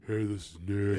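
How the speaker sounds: a hint of a sultry radio voice; sexy voice. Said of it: "My sexy voice".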